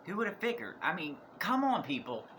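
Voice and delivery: high sarcastic mock surprise. Real, not acted. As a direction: roll your eyes at the obvious. Mocking the obvious twist.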